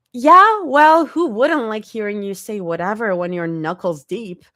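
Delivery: high, loud grumbling retort; mutter. A narrator's reading. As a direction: grumble it back. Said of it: "Zoe mutters".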